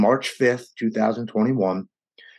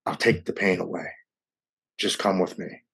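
voice of addiction; 2 semitones lower, 4 dB quieter than usual. Retold or imitated. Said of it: "my addiction steps in, and it says".

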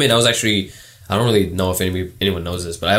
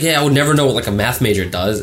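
put-on girl voice; 3 semitones higher than usual. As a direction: imitate a girl, pitched up. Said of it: "That's my girl voice".

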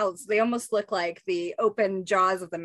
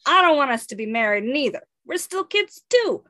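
put-on protesting kid; 4 semitones higher, 4 dB louder than usual. Raph protesting in comic read.

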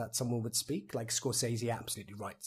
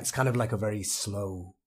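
slow, low Irish accent; slow Irish lilt, less drunk Colin Farrell; 4 semitones lower than usual. Shown as a demonstration. Actor showing what to listen for in Irish, slow Irish accent. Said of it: "Irish is sort of".

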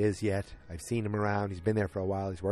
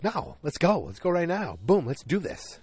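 higher, brash imitation of a cocky boss; cocky confidence; 7 semitones higher than usual. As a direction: toss it off like he's on top of the world. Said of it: "He was all confident. He was all cocky".

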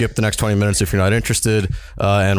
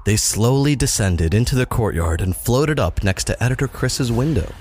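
story narration. A narrator's reading.

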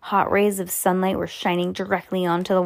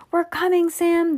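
high called-out yell; 11 semitones higher than usual. Acted. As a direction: shout it across the room to a friend. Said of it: "they yelled".

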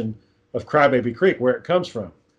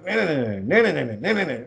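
car won't start; 4 dB quieter than usual. Retold or imitated. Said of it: "like, the car won't start".

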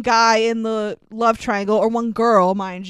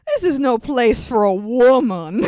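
lightly voiced chauvinist, a touch louder; mock macho voice; 3 dB louder than usual. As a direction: play the pompous protector, half joking. Mocking the men's macho logic.

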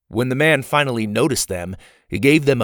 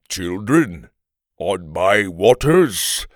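put-on slow Viking growl, heavy accent; heavily accented Viking growl; 3 semitones lower, much slower than usual. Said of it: "growled in a heavy accent".

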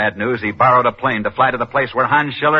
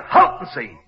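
normal talking voice

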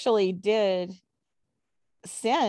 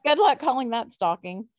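laughing, louder; 4 semitones higher, 5 dB louder than usual. Real, not acted. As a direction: laugh it out mockingly. Laughing jab at the accusers.

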